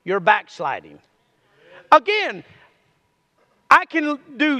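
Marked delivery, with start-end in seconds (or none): 0.0-1.0 very slow, rising on I; slow tender promise of God. Acted. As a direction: draw out And I will heal. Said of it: "And then he says this".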